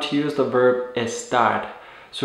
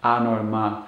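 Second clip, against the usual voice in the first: "anormal" in Spanish, softly ending on stressed "mal"; stress on last syllable; 4 semitones lower, 4 dB quieter than usual. Shown as a demonstration. Teacher repeating for learners, "anormal" stressed on final "mal". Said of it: "put the stress on the last syllable".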